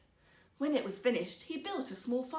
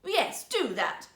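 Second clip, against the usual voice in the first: curt order; 3 semitones higher, 6 dB louder, slower than usual. Acted. Princess orders maid.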